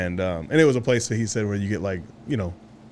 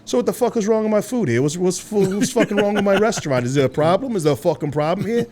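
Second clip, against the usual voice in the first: raised, higher-pitched mock rant of an angry owner; hammed-up tirade at rude customers; 6 semitones higher than usual. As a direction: owner barking at the table. Angry restaurant owner confronting them.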